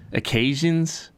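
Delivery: lips too cold to shape words; struggling to enunciate; shivering. Real, not acted. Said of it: "I can't enunciate".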